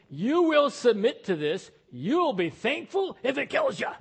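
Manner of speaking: mock tyrant demanding submission; stern demanding God. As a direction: bark it like a harsh taskmaster. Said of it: "That kind of attitude".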